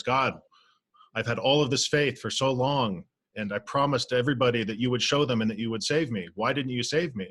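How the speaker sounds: angry complaint. Acted. Drowned man in heaven accusing God, angry and loud. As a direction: storm at God, betrayed and indignant. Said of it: "is really angry at God and says".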